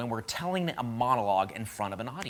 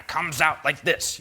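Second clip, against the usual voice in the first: forced out in stiff, louder bursts; tight, stiff delivery; 3 semitones higher, 4 dB louder, slower than usual. Shown as a demonstration. Improv coach showing how stiffness blocks the flow, tight and stiff. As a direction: push it out tight, without flow. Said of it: "We feel tight".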